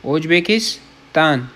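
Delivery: ازبکستان drawn out syllable by syllable; slow careful demo of ازبکستان; slow model word. Shown as a demonstration. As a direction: say ازبکستان very slowly for learners to copy. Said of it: "ازبکستان، repeated as a demo".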